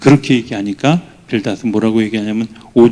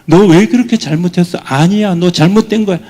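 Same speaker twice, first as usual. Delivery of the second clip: mock judging voice; 8 semitones higher, 7 dB louder than usual. Judging voice quoted.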